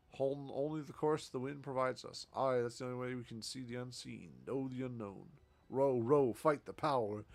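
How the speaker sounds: a hint of a boastful captain welcoming new crew; hearty sea captain. Sea captain welcomes a new crewmate, hearty and bold. Voices the ship captain's lines.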